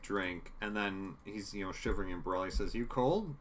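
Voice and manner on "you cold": higher-pitched solicitous question; acted concern. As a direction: check on him in a raised, acted voice. Acting out Borelli fussing over Hawkeye.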